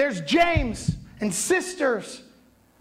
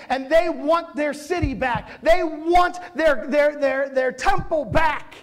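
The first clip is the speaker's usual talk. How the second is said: building passion; 5 semitones higher than usual. Real, not acted. Preacher building to a peak.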